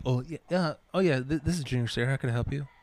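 put-on lightly girlier phone voice; a hint of a sweet business tone; mildly girly phone greeting. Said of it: "I sound more girly".

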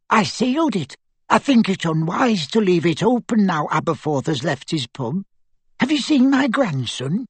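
put-on high elderly grandmother voice; brisk, high old-lady voice; crisp old lady. A narrator's reading. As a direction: state it firmly as an old witch, lifting high on the question.

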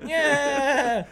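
high whooping cheer; wolf voice. Retold or imitated. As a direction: howl it out, very high. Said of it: "an oft-quoted thing".

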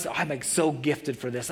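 ordinary delivery

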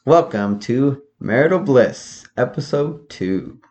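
slow, announcing host voice; game show host. Acted. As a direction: welcome viewers like a TV host. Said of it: "are you purposely doing a, like, game show host?".

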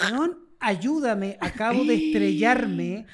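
slow, drawn-out mock plea; retold plea for help. Crash victim begging bystanders for help, drawn-out retold plea. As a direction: drag out a dazed call for help. Acts out pleading after the crash.

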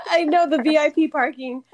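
laughing. Real, not acted. Host laughing with her guest about the VIP parking perks, laughing. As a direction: giggle out the joke about the parking.

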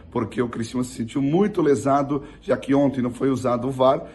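rough, hoarse speaking voice; talking through a hoarse throat. Real, not acted. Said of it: "minha voz tá rouca aqui".

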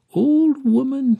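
high, loud, drawn-out call; emphatic address. A narrator's reading. Young woman addresses Mercy, emphatic. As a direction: call it out slowly and insistently.

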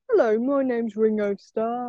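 soft attempt at a Liverpool accent; lightly put-on Liverpool accent, a little under the breath; a drummer. Friend trying out a musician's accent, soft mock Liverpool impression. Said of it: "talking his accent".

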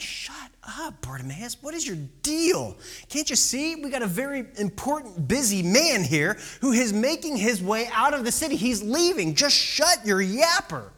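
lightly acted crowd shushing a nuisance; annoyed scolding. Acted crowd scolding the blind beggar.

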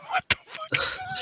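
high, breathy, laughing; laughing disbelief. Real, not acted. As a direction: gasp it through laughter. Reacting to meme.

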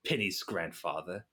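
lightly voiced gruff, vaguely European grandfather. Disguised grandfather confronting professors about his granddaughter, lightly gruff. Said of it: "I'm just gonna talk kinda gruff".

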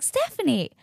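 high-pitched mock delighted call; surprised greeting. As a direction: imitate a midwife spotting a patient she knows. Midwife greets her by surprise.

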